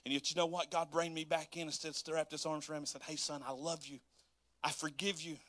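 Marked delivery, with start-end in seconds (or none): 3.0-5.4 softly spoken, gentle fatherly reassurance; tender. Acted. Voicing God's tender forgiveness.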